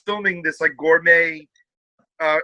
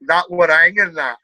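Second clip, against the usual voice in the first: attempted northern English accent; 4 dB louder than usual. Shown as a demonstration. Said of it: "let me see if my northern's good".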